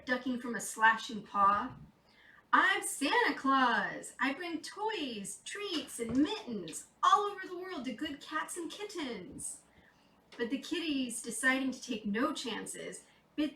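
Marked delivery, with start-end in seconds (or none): 2.5-9.6 jolly Santa. Acted. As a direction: announce yourself like a proud Santa. Santa introduces himself.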